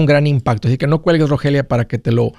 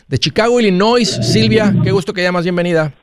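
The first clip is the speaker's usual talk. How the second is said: radio host welcome; 5 semitones higher than usual. Acted. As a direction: announce the caller warmly. Host greets caller.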